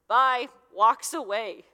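a loud, abrupt goodbye; curt goodbye. Retold or imitated. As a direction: toss off a bye while walking out. Jesus abruptly leaving, acted out.

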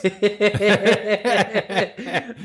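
high squealing laughter; shrieking laugh; high laughing fit. Real, not acted. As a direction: cackle up high, almost crying.

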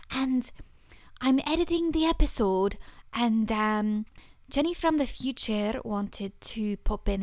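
a hint of a Scottish lilt as future Jenny; playful mock Scottish, bright greeting; light Scottish accent. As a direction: podcaster dropping in from the editing room in a Scottish accent. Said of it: "what my accent has been ... The Scottish one".

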